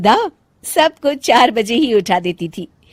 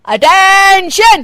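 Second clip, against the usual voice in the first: high, drawn-out slow parade-ground shout; mother-in-law calling the house to attention; drill command; 10 semitones higher, 8 dB louder, much slower than usual. Acted. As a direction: bark it like a drill sergeant. Retired policewoman barks command.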